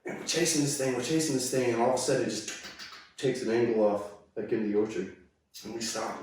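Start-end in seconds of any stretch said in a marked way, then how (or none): none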